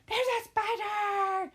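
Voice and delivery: put-on high, slow, frightened child's cry; scared little girl. Mom imitating her daughter's high frightened wail.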